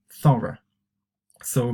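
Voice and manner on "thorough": "thorough" the British way, ending in a schwa; "thorough" with an unstressed "uh" ending, not "oh"; British pronunciation. Shown as a demonstration. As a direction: say "thorough" as THURR-uh. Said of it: "British English. We pronounce".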